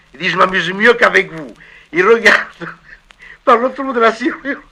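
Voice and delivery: a soldier's joke that dissolves into hysterical laughter; comic routine. Acted. Actor shows the agent his comic side, building to shrieking laughter. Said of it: "je peux faire aussi le comique".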